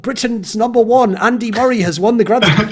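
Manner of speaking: high, mock-triumphant headline; mock proud headline. British newspapers claiming Andy Murray, mock proud headline. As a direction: proclaim it like a proud paper, put on. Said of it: "they wrote".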